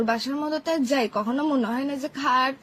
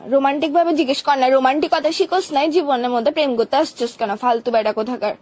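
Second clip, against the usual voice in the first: loud, fast telling-off; angry scolding; 4 dB louder than usual. Acted. Girlfriend scolding boyfriend for not being romantic, loud.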